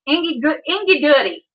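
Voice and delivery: "Ingy" for "give me", "goody" said like "doody"; small child's "Ingy goody", run together simply; toddler baby talk. Retold or imitated. Toddler asking for a treat, baby-talk "Ingy goody". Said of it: "when she was first learning to talk".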